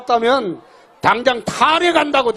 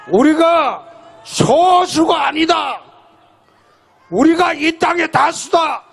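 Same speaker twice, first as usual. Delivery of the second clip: 외치듯이; 4 semitones higher, slower than usual. Real, not acted. Rally crowd rousing call.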